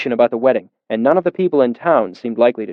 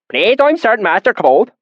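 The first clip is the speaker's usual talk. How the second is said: put-on deep valley accent; 10 semitones higher, 3 dB louder than usual. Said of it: "his accent so thick and oily".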